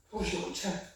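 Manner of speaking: hushed repeat of 부르시고 끝이 아니에요; soft echo. Shown as a demonstration.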